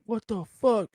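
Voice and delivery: startled shout. Retold or imitated. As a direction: shout up in shock. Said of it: "he literally hears".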